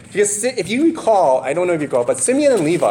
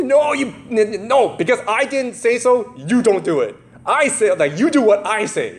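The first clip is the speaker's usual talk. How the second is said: bossy parent; 5 semitones higher than usual. Retold or imitated. Parent overruling the child.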